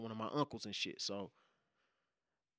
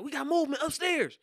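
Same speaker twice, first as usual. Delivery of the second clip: higher, louder clipped officer report; mock police call-out; 13 semitones higher, 8 dB louder than usual. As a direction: call it out like a cop on a raid. Quotes police with flashlight.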